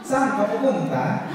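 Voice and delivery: slow, high singsong Ilonggo tune; Ilonggo lilt on Tagalog. Retold or imitated. Comedian imitating how Ilonggos sound speaking Tagalog, slow singsong. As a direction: let the Ilonggo melody carry the Tagalog, slowly. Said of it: "yun din ang tono nila sa Tagalog".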